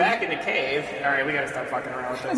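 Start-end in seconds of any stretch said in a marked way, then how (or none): 0.0-0.8 cave echo. Pretend. Cave effect back on.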